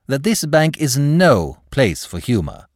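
slow, high, emphatic echo; solemn agreement. Acted. Clerk echoes the manager's rule, solemnly agreeing. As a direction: agree loftily, drawing out each word.

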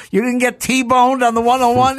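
high, loud, amazed question; amused, astonished retelling; mock incredulity. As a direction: act out catching someone in a silly lie. Acting out questioning the limo driver.

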